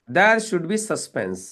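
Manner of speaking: very slow, every word of "There should be suspense" set apart; spelled-out rule. Shown as a demonstration. Coach slowly drills the rule into his trainee. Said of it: "coach stresses a rule".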